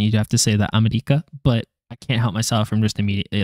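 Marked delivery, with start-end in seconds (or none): 0.8-1.2 America in a Japanese accent, with a tapped R; America pronounced the Japanese way, R as a quick tap. Shown as a demonstration. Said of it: "you have to say it in the accent".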